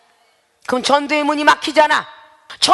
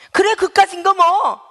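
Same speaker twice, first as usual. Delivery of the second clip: careless shrug; 6 semitones higher, slower than usual. Retold or imitated. Voicing Esau's careless sale.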